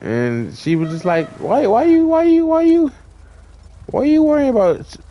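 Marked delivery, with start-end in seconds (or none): 1.4-5.0 high-pitched, stammering mock girlfriend; flustered retort. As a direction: imitate her defensive, rising stammer in a high voice. Retold girlfriend's flustered, defensive questions.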